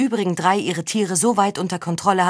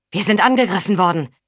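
calling out; 4 dB louder than usual. Acted. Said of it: "rief der Anführer ihm zu".

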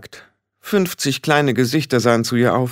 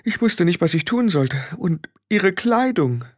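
higher, faltering woman's voice; rattled Frau Grad; 8 semitones higher, 3 dB quieter than usual. Acted. Frau Grad tells Rob how Tiffany changed, unsettled. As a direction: recount it uneasily, with halting pauses.

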